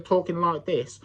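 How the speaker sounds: imitating a stuffed-up nose; mock about-to-sneeze voice. Mocking a rival's promo voice, mock pre-sneeze sound. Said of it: "sounds like you're about to sneeze".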